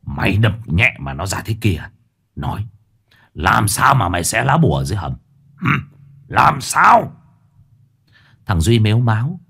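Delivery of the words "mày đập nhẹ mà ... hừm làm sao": menacing interrogation. Acted. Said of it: "trợn mắt".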